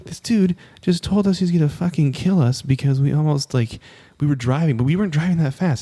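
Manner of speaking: worked-up, high-pitched protest; angry retelling. Retold or imitated. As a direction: re-enact an indignant complaint to the parents. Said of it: "I'm, like, angry".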